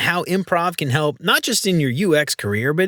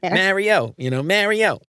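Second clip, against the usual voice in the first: Yat name call; 4 semitones higher, slower than usual. Retold or imitated. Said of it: "Or, like".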